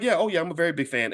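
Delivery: quick, throwaway tone, like it's nothing; offhand casual. Retold or imitated. Airport clerk to the star, casually quick and offhand. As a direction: toss it off casually and fast. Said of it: "she just said it like it was nothing".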